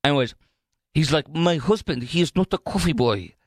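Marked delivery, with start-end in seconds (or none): 1.3-3.3 lightly done Greek accent, mock indignant; hint of a Greek wife's accent, insisting; Greek accent imitation. Wife defends her husband in a light mock Greek accent. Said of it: "a Greek or foreign accent".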